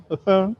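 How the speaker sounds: small mock sobs; imitated crying. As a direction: sob softly like a little girl. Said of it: "and she's crying".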